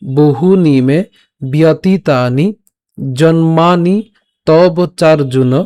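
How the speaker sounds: slow syllable-by-syllable shloka recitation; line recitation demo. Shown as a demonstration. Teacher repeats the first line, slow model recitation. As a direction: hold each long vowel as you recite. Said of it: "প্রথম লাইনটা যদি আমি আরেকবার বলি".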